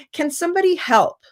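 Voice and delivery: teacher inviting classmates to help without blame; positive invitation. Shown as a demonstration. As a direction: ask the class warmly, no blame. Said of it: "So now it's more positive".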